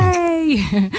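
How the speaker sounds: high, bright little cheer; cheery yay. Real, not acted. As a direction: cheer him in. Cheers Adam joining.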